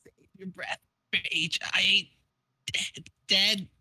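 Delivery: halting, lightly acted dying voice; defiant last words in broken bits; Vriska dying. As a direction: play dying, start faint and pause between words. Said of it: "I need to do a dying Vriska voice".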